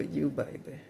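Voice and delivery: put-on light Southern drawl on baby; Southern accent. Shown as a demonstration. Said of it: "in my southern accent".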